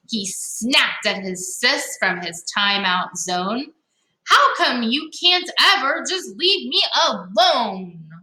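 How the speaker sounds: lively storybook read-aloud; reading to children. Acted. Teacher reading a picture book to young listeners, lively. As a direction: read it to the kids with bounce.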